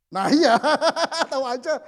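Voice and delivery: loud, high laughter through the words; laughing. Real, not acted. Preacher caught out by the audience, laughing loudly. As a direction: burst out laughing as you agree.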